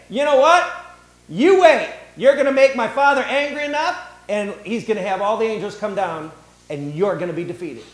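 high, loud menacing warning, easing off; pretend threat. Preacher voicing a threat Jesus never made, loud and high. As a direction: threaten them, then let it settle.

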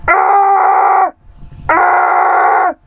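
high excited yell; excited shout. Real, not acted. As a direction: shout out the triple kill. Excited about kills.

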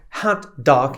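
Hot dog with a light open hot; Hot dog, anglicised; light English hot. Shown as a demonstration. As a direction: say Hot like hat. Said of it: "ja to wypowiadam w taki sposób".

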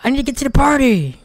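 high frantic hurry voice; mock impatient character. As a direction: rush him like a panicking kid. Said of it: "He's like".

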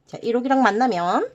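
ordinary delivery

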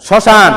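"শ্মশান" with the first m left silent; silent মফলা. Shown as a demonstration. Teacher checks the next word with pupils, শ্মশান with silent মফলা. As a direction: say শ্মশান as shoshan, no m. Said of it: "মফলা উচ্চারণ আছে?".

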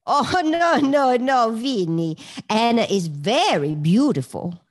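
loud, drawling New Orleans impression; Maury. Imitating the teacher for Vinny, in Maury's voice. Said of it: "She goes".

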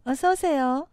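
plain standard Korean greeting; 표준어. Shown as a demonstration. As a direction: welcome them in standard Korean. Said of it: "표준어". (표준어로 인사)

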